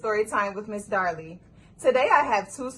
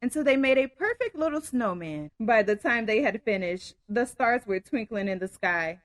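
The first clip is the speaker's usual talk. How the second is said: story narration. A narrator's reading. Reads story aloud.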